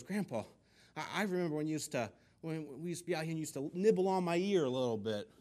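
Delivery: high, hopeful coaxing; excited grandma. Acted. Grandma reminding Grandpa of old romance, excited. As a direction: act out an eager grandma reminiscing. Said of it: "Grandma was really excited".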